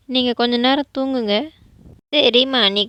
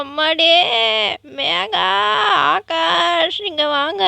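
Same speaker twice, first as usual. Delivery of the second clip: panicked call for help; 5 semitones higher, much slower than usual. Acted. Grandmother falls, calls for help.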